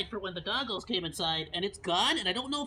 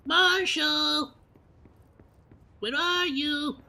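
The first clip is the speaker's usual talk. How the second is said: calling out; 6 semitones higher, 4 dB louder, much slower than usual. Real, not acted. Calling out for Marshall.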